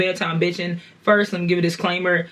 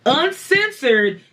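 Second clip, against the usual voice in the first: podcast host intro; 4 semitones higher than usual. Real, not acted. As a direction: lively show opener with a drawn-out title.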